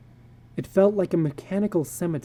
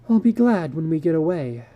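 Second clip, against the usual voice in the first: sighing; 2 semitones higher than usual. Acted. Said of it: "she sighed".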